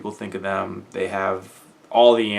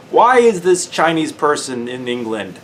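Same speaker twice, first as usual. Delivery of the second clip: mock question; 7 semitones higher, 8 dB louder, slower than usual. Mocks the blunt question.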